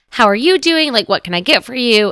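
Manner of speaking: put-on cheery, pleasant, happy tone. Retelling how the person behind the counter greets them: imitating a happy, pleasant greeting. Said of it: "the person behind the counter is happy".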